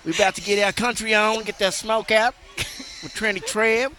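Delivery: country voice. Pretend. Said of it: "so that's my best country voice there".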